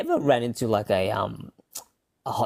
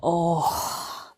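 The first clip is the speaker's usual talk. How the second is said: higher-pitched mock English accent; put-on English accent; 4 semitones higher, slower than usual. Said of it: "with an English accent".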